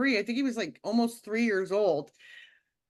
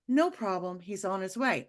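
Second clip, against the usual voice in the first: imitating a calm, unhurried dispatcher, a little softer; 3 semitones lower, 3 dB quieter than usual. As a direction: quote the operator as eerily calm. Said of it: "Her voice was very calm".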